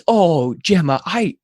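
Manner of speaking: lightly hammed-up prim sister; chiding older sister. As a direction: imitate a big sister correcting the little one. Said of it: "my older daughter just jumps in and she goes".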